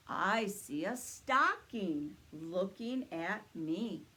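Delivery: slow booming Santa reply. Acted. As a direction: answer slowly like Santa himself. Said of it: "let's ask Santa what he sees".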